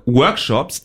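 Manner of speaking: Workshops rattled off as a list item; hurried, businesslike "Workshops"; stressed-out list reading. Real, not acted. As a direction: read "Workshops" briskly, straight on to the next. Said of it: "Klingt eher nach Stress".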